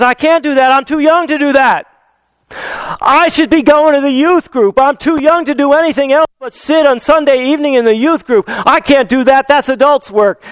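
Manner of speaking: put-on a reluctant kid pleading he's too young; whiny young Jeremiah. Young Jeremiah refusing God.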